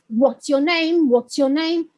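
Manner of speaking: "What's your name" with the beat on "name"; sentence stress. Shown as a demonstration. Teacher showing sentence stress, rhythmic weight on "name". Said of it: "teaching them sentence stress".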